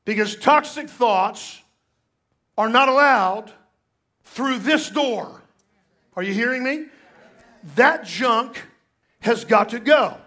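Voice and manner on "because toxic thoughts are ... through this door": slow, punched preaching; slow emphatic. Real, not acted. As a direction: lay each word down. Preacher proclaims slowly.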